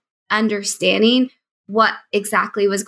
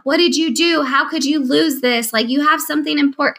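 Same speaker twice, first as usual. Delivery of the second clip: self-critical scolding; 6 semitones higher than usual. Retold or imitated. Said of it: "beating myself up".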